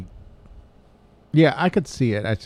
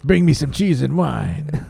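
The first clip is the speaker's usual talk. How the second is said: put-on high, loud, slow French accent; hammed-up mock French accent; 4 semitones higher, 5 dB louder, slower than usual. Cohost showing off for the host, exaggerated French accent. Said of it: "That's better than Keanu's".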